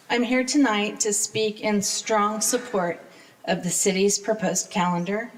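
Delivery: nervous, trembling voice; shaking voice. Real, not acted. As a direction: voice shaking with nerves. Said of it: "My voice is shaking".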